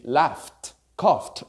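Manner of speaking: "laughed", "coughed" each ending in F plus T. Shown as a demonstration. Teacher gives examples of past endings, ED as T. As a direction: close "laughed" and "coughed" on a T, no extra syllable. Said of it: "will sound like a T".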